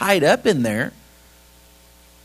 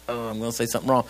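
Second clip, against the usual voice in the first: hesitant inner voice; 6 semitones lower, 6 dB quieter, faster than usual. Retold or imitated. Voices his own embarrassed inner thought.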